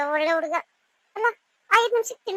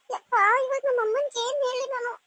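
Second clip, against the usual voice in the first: high-pitched, upset wail without shouting; tearful; 5 semitones higher than usual. Acted. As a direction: fret as if starting to cry. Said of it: "ಯಾಕ್ ಅಳ್ತಾ ಇದ್ಯಾ?".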